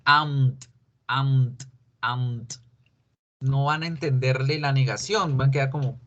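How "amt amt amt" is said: "amt" with m and t jammed together, repeated and fading; impossible contraction. Shown as a demonstration. Teacher showing students why "amt" cannot be said, trailing off. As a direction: try to squeeze out "amt" and show it fails. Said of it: "al tratar de decir".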